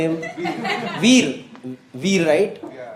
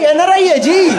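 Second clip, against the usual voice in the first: boastful dad; 7 semitones higher, slower than usual. Retold or imitated. Mimics proud father boasting.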